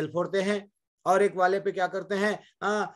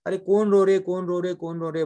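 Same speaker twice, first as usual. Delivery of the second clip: calling out; 3 semitones higher, 5 dB louder than usual. Acted. Man calls out to crying stones.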